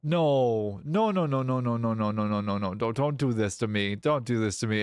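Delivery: frantic begging; pleading no's. Real, not acted. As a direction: beg the friend to stop. Streamer pleading over ruined factory.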